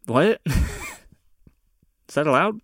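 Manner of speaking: slow, laughing, innocent question; laughing mock innocence. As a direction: ask it with a giggle of fake naivety. Mock naive question about colonizers.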